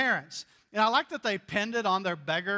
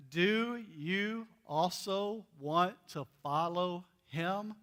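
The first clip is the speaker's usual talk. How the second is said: slow, dry mock innocence, trailing softer; sarcastic; 4 dB quieter, slower than usual. Blind man mocking the religious leaders, dry and sarcastic. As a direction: needle them with a slow fake question. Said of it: "the spiritual gift of sarcasm".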